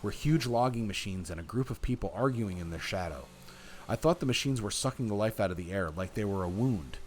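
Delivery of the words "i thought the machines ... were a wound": measured, expressive read-aloud; story narration. A narrator's reading. Player reading the game's story to viewers, story narration. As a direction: narrate it like an audiobook.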